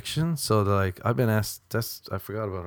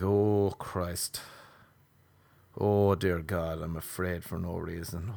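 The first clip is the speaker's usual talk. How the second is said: mock anxious prayer; 3 semitones lower, 3 dB quieter than usual. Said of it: "when I feel afraid".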